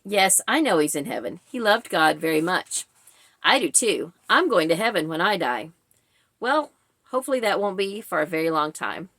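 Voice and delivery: expressive read-aloud, phrases flowing together; natural human reading. Shown as a demonstration. Showing how a human reads the funeral scene, natural reading. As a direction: read the dialogue like a person would. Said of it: "like a human would read it".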